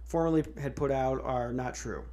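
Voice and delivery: mock stuttering statement; stammering forced statement. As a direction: stumble through a hostage script. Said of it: "didn't say it like a stuttering crackhead".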